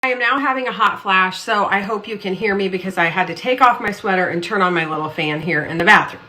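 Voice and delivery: slight lisp, strips on teeth; lisp from whitening strips. Real, not acted. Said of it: "If I sound like I have a lisp, I do. I have my whitening strips in".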